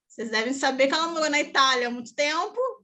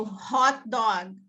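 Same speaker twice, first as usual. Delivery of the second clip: ordinary talk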